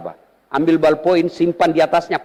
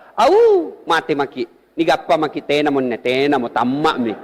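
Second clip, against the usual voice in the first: panicked in Makassar dialect. Retold or imitated. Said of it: "kalau bahasa di Makassar".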